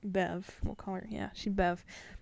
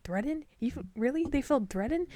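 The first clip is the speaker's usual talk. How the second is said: high incredulous echo of the word; mock outrage; 6 semitones higher than usual. Customer mocking the manager's word, in high incredulous imitation. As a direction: throw the word back in high disbelief. Angry customer voiced in story.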